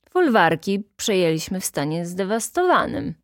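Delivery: lightly voiced dignified reply. Stasinek answering the inspector, mildly dignified. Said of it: "odrzekł godnie".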